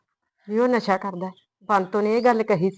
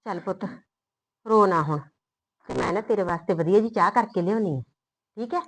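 tender comfort; 2 semitones lower than usual. Acted. Mother comforting her crying daughter, tender. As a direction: hush her tears gently.

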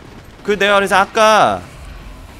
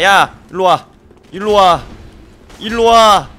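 loud, rising "come here" taunt; taunting yell; 2 semitones higher, 7 dB louder, slower than usual. Real, not acted. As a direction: goad the enemy, getting louder each time. Taunting enemy player in fight. (적에게 점점 크게 외치는 도발)

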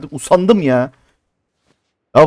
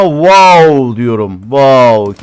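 self-congratulating wow; 3 semitones lower, 4 dB louder, much slower than usual. Real, not acted. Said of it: "Kendimi tebrik ettim".

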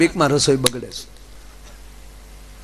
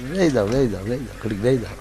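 much softer, lower meek pleading; mock meek plea; 6 semitones lower, 8 dB quieter than usual. A humbled passenger begs for a seat, soft and low. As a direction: shrink and beg under your breath.

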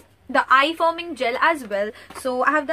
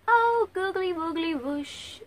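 drawn-out, higher-pitched silly cooing; gushing silly reaction; 4 semitones higher, slower than usual. Acted. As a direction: coo nonsense in a stretched high voice. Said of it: "You're like".

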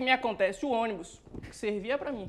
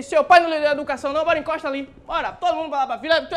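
mock cop shout; 3 semitones higher, 9 dB louder, faster than usual. Rough cop yelling at the kid to line up. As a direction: bark it like a rough street cop.

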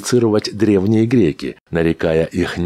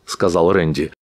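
usual speaking voice

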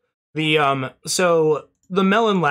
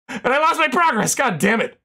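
frustrated; 6 semitones higher than usual. Real, not acted. Loses progress, frustrated.

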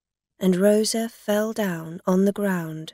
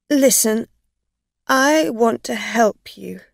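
pleading; 3 semitones higher, 7 dB louder than usual. Acted. Dorothy begs again.

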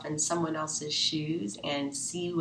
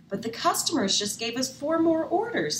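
worried alarm; 9 semitones higher, 4 dB louder than usual. Acted. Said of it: "said Peg".

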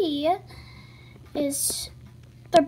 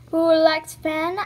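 playful call; 6 dB louder, slower than usual. Pretend.

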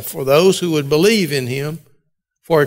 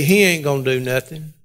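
East Texas Mississippi accent; 3 semitones lower than usual. Shown as a demonstration. Preacher rewording scripture for his flock in a mild Mississippi accent. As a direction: say it like a plain-spoken Mississippi country man, lightly. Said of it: "East Texas, filtered through a Mississippi accent".

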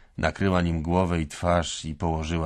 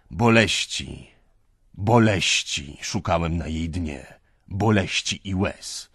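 slow, loud, stressed „boleści”; anguished lament; 8 dB louder, slower than usual. Acted. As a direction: hammer the word boleści. (z naciskiem na „boleści”)

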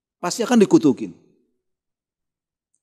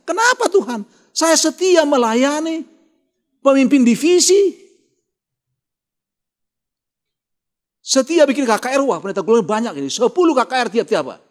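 the sick pastor pleads with God, mock sobbing complaint; imitated weeping; 6 semitones higher than usual. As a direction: act out his tearful protest, dragging the words. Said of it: "Oh, nangis dia".

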